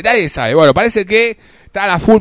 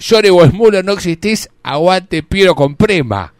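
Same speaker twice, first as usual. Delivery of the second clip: mock jungle shout; 6 dB louder than usual. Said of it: "al grito de".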